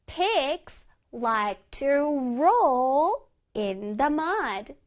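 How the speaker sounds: one word at a time with pauses; slow model reading. Shown as a demonstration. Teacher reading an example for children, word by word. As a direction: space out every word clearly. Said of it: "예문해서 볼게요".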